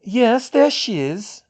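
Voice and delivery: high, slow, loud joy; beaming delight. A narrator's reading. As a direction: announce the newborn with proud delight. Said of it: "She was positively beaming".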